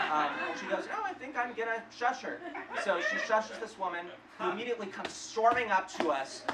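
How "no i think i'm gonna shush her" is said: higher-pitched imitation of a determined friend; lightly mocked stubborn reply; breezy insistence. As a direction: brush off the plea, pitched up. Friend insists over his plea.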